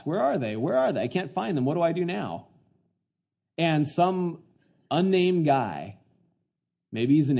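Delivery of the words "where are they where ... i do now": lost Joseph. Pretend. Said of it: "looking for the flocks".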